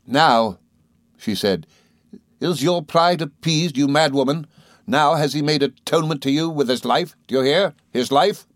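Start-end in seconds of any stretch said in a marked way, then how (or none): 0.0-0.6 a louder, biting opening word; bitter scornful "Now"; bitter outburst. Acted. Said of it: "broke into a frightful laugh". 2.4-8.5 furious accusation. Acted. Rosa attacking grieving mother.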